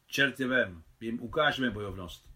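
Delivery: heated. Acted. Nicole flares up at the bandits, a touch heated. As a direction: bristle and threaten back. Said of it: "Rozpalila se Nicole".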